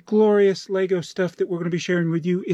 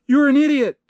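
high, loud, punchy "You're an idiot"; emphatic misreading; 9 semitones higher, 5 dB louder than usual. Acted. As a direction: read the insult out high and emphatic. First reading, corrected right after.

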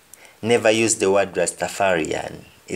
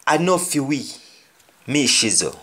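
Jamaican patois; 4 semitones higher than usual. Shown as a demonstration. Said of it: "the example we say".

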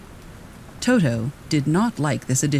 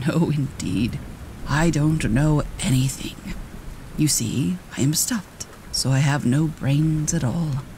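sadly. Acted. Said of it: "he answered sadly".

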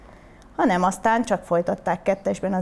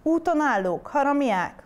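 higher-pitched indignant outcry; indignant cry; 6 semitones higher than usual. Acted. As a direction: fling the accusation at the attackers. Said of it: "kiáltotta tündér szép Ilona".

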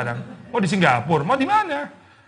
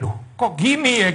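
slow, higher exasperated sigh of a line; annoyed reader; 6 semitones higher than usual. Retold or imitated. Reader frustrated by a novel's delays, exasperated. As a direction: sound fed up with the plot. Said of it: "kita seperti kayak".

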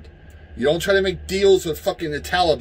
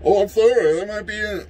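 higher, sarcastic sympathetic voice; mock apology; 3 semitones higher than usual. Ranter mocking people sorry for dead criminals. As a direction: fake sorrow, mocking. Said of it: "I don't give a fuck".

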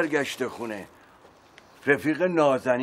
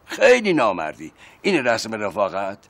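angry scolding; 2 semitones higher, 5 dB louder than usual. Acted. Betrayed friend scolds.

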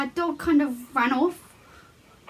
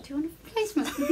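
quick, softer matter-of-fact quote; imitating calm; 3 semitones higher, 5 dB quieter, faster than usual. Friend retelling the pet shop worker's reply, imitated calm. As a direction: mimic someone entirely unfazed, quietly. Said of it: "like, so calm about it".

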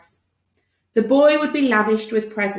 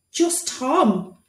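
weary; 5 semitones higher than usual. Acted. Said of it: "replied Tom wearily".

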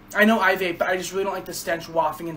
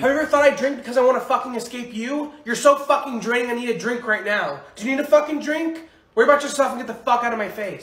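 angry outburst; 3 semitones higher than usual. Acted. Drinking quarrel.

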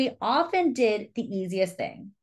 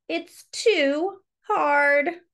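higher, very slow and drawn out; whiny Charlie; 5 semitones higher, 3 dB louder, much slower than usual. Acted. Charlie gives up on birthday choices. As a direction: let it sag with childish despair. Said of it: "said Charlie".

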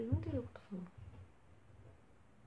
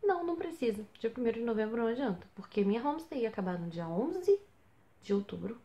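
irritated retort. Retold or imitated. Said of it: "muito irritada".

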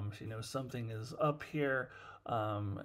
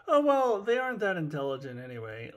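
mocking dismissive supervisor; 4 semitones higher, 5 dB louder than usual. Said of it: "dumbass shit like".

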